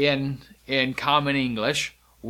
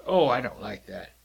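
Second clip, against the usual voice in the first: lower, grumbling dislike; a touch of disgust; mock distaste; 4 semitones lower than usual. Shown as a demonstration. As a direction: act out not liking it. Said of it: "You can say".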